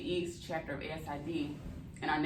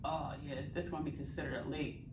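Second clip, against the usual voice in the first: talking while chewing; mouth full; 2 semitones lower than usual. Real, not acted. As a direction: speak round a mouthful. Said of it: "excuse me for talking my mouth full".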